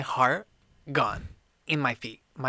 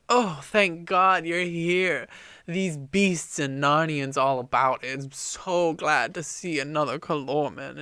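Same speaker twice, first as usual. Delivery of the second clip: fake relief; 3 semitones higher, 6 dB louder than usual. King pretending relief to the enemy officer, hammed-up gush. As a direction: ham up the relief to fool him.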